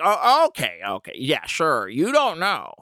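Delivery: put-on high-pitched, syrupy old lady; climbing up high on the prayer line; sweet old neighbor. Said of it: "she's basically like".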